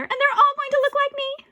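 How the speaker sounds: high, loud mock sweet gloat; gloating ghost. Ghost bride gloating to Arlo, high. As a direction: lift up teasingly.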